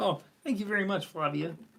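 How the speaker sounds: put-on frog puppet voice. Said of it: "that's the only voice I can do".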